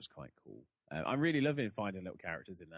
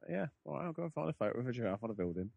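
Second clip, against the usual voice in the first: put-on Australian accent; 4 semitones higher, faster than usual. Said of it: "He's like".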